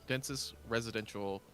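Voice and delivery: slow, measured descriptive narration; game master's scene-setting. A narrator's reading. Game master introduces the Mosaic to players, slow narration. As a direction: lay out the place slowly for the players.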